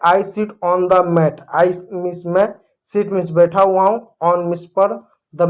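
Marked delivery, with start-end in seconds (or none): 0.1-1.4 very slow, each word set apart; slow model sentence. Shown as a demonstration. Teacher reading the example to kids, very slow. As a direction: spell it out for the class. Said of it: "जैसे".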